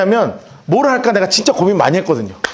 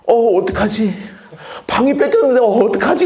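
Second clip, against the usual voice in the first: mock fretting. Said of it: "뭐 이렇게 했냔 말이에요".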